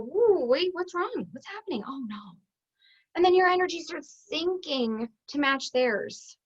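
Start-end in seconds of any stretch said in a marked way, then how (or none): 0.0-2.4 acted dismay, dropping away; mock concern. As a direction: let the alarm sink into hushed sympathy. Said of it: "you're gonna go".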